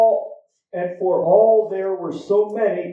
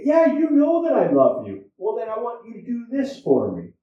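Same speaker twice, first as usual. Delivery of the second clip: exasperated reply; 4 semitones higher than usual. Retold or imitated. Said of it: "And I would say".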